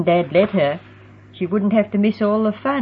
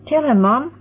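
excited; 8 semitones higher, 4 dB louder than usual. A narrator's reading. Heather bursting with excited news.

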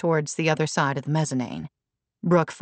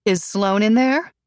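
demanding; 5 semitones higher, 4 dB louder than usual. A narrator's reading. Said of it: "Brooke demanded".

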